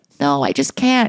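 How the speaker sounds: imitated hysterical crying, sobbing. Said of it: "She's hysterical crying".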